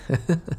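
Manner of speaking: light, amused little laugh; short chuckle. Acted. Amused at the fake engagement.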